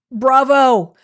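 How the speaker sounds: Bravo shouted out high and loud. Shown as a demonstration. Host cheering a viewer for homework, loud bravo.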